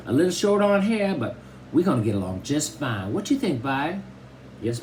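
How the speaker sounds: put-on high old Southern grandma voice; Grandma Sands. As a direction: fuss over the grandson like a tiny old granny. Grandma Sands keeps talking.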